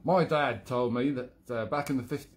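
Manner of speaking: London character slipping into Australian; accidental Australian accent. Acted. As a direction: attempt London, drift into Australian. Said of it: "oh God, I've gone Australian again".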